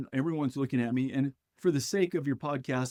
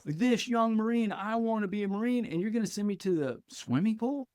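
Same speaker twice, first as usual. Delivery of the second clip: high-pitched, indignant disbelief, retold; retold incredulous protest; 7 semitones higher than usual. Young Marine sent to the swimming pool, retold incredulous protest. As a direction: protest it high, ending on an appalled question.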